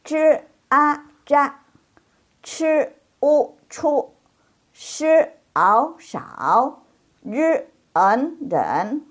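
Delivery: high initials, then finals in their tones; following the tones. Shown as a demonstration. Teacher drilling the class, spaced syllables with clear tones. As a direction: spell out zhi, chi, shi syllables in tone. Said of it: "Jadi ikuti nadanya".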